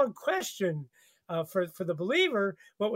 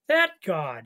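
ordinary delivery

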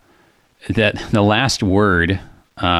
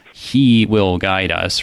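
he stressed, "He will guide us" said very slowly; emphatic he; much slower than usual. Shown as a demonstration. Host pointing out the focal pronoun, stressed he, slow. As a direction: land on he, drag the rest. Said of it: "That emphatic "who".

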